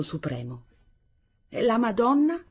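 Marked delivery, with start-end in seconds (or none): 1.5-2.4 impetuous, trembling. Acted. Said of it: "con voce impetuosa, tremante".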